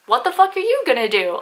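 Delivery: lightly acted confrontational retort; mock-indignant retort. Throwing his challenge back at him.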